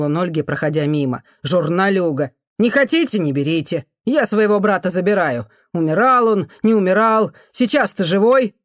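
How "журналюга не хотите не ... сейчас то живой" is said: much higher outraged cry; indignant outcry. Acted. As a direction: shame the crowd out loud. Man argues angrily.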